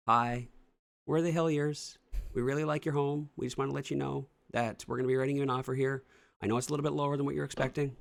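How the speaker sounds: a hint of a cheerful homebuyer pitch; sweet buyer letter. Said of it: "even sending a video".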